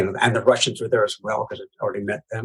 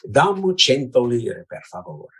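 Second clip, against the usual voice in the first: standard Italian. Shown as a demonstration. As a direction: say it in a lovely, musical standard Italian. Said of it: "to give an example, in, in standard Italian".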